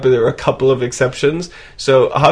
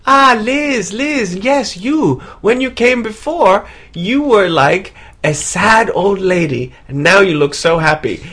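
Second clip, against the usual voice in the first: much higher squeaky puppet-like voice; Elmo-like palm reader impression; 6 semitones higher than usual. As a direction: chirp it like Elmo greeting an old friend. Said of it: "sounds like Elmo from Sesame Street".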